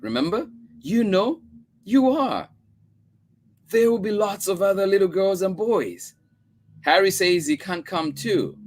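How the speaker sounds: put-on high, childish protest; small girl pleading for Harry; little girl voice. A narrator's reading. Child Chris voiced in story.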